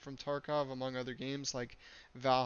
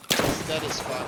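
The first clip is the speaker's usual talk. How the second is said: excited shout; 10 dB louder than usual. Real, not acted. Kill confirmed in raid.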